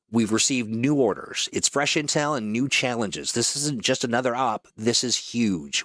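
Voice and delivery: polished mission-briefing announcer; brief the crew like a game trailer; promo voice-over. Acted. Voice actor welcoming players to their next operation, announcer read.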